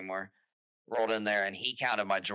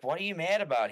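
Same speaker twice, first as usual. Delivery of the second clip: higher and louder, incredulous; mock clueless boss; 7 semitones higher, 4 dB louder than usual. Imitating the boss asking why he's mad, mock innocent. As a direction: play dumb, innocent.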